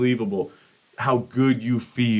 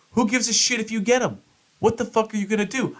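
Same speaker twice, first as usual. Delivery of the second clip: scoffing; 11 semitones higher, faster than usual. Retold or imitated. Scoffing at wife's ticket plan.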